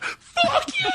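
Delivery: high celebratory whoop; high fist-pump whoop; triumphant yell. Retold or imitated. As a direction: cheer it like you won. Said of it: "fist pumping, like".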